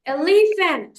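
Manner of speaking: এলিফ্যান্ট in parts; syllable demo. Shown as a demonstration. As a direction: model এলিফ্যান্ট for the class. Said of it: "three পার্টে উচ্চারণ করছি".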